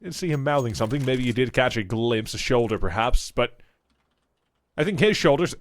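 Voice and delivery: lively play-by-play commentary; esports caster. Acted. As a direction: call the round live. Live play-by-play casting.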